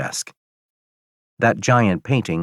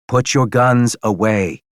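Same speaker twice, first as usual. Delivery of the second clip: firm command; 4 semitones higher than usual. Acted. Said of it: "the priest says".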